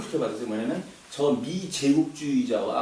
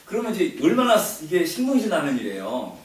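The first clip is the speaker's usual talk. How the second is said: usual speaking voice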